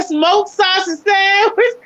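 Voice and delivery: slow, drawn-out mimic of the owner; imitating the owner. Mimicking the restaurant owner saying the menu item slowly. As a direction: stretch it out like the owner did. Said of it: "That's how he said".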